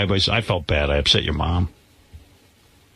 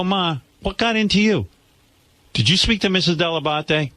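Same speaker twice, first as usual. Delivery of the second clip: higher, stunned son questioning his mother; shocked to mom; 8 semitones higher than usual. Retold or imitated. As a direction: caught off guard, asking Ma what happened. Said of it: "I go".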